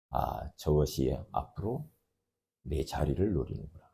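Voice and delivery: a jealous king muttering to himself; Saul's jealous mutter. Retold or imitated. Saul's jealous inner thought.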